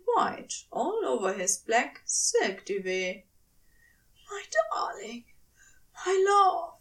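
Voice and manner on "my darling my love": murmured. A narrator's reading. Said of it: "Aziraphale murmured".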